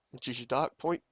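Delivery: holding back hiccups mid-sentence; suppressing hiccups. Real, not acted. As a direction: talk through the hiccups. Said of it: "Sorry, I have the hiccups".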